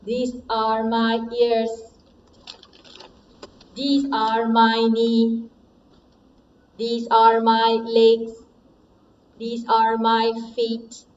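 flat, even robot voice. Shown as a demonstration. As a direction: speak like a toy robot, monotone. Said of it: "now you have to change your voice with your voice robot".

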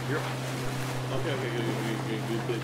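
calm him down gently; reassuring. Real, not acted. Calming panicking friend.

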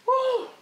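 a high, loud whoop of delight; excited whoop. A narrator's reading. Little Jamila whooping when the comb turns up, high and loud. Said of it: "Jamila cried".

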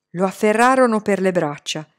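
ordinary delivery

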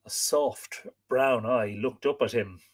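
lively, dramatic read-aloud; expressive storyteller with acted dialogue; story narration. A narrator's reading. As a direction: read the tale with wide swings of pitch.

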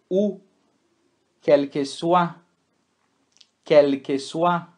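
quel que soit said slowly as kel ke swa; French pronunciation. Shown as a demonstration. Teacher repeats a French phrase for students. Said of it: "nós vamos lê-lo".

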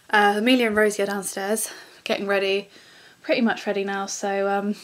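breathless after running upstairs; out of breath. Real, not acted. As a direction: talk while catching your breath. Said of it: "I'm out of breath, I just ran up the stairs".

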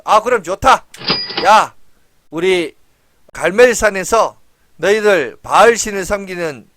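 a loud, commanding king calling everyone to the mountain; king's loud summons. Retold or imitated. King Ahab loudly orders the Baal priests to gather.

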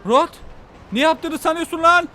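high, loud angry shout; furious what-are-you-doing; angry yell. Acted. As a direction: yell at the man with the rocket. Yelling at Rod.

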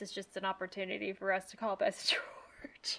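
hushed sly whisper. Real, not acted. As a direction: drop to a breathy whisper. Teasing aside about Bess and George.

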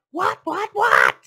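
very loud, high repeated demand; exasperated fox. A narrator's reading. Exasperated fox cuts piglet off.

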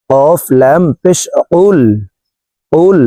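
slow letter-by-letter spelling "কফ লাম পেশ উল". Shown as a demonstration. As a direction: spell it out slowly like a Quran teacher. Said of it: "উচ্চারণ করে পড়তে হবে".

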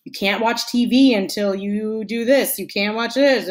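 lightly acted nagging; mild imitation of someone on your case; nagging reminders. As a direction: pile on one order after another. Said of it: "they keep telling you, reminding you".

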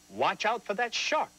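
sudden alarmed warning; urgent warning. Shown as a demonstration. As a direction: call it out like a real warning. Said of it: "strong command".

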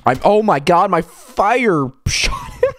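high, loud words broken by laughter; laughing in disbelief. Real, not acted. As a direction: laugh through the words, shocked at yourself. Friendly fire kill, laughing.

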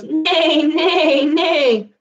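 whinny it playfully, laughing; hammed-up horse neighing; horse neighs. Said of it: "He goes".

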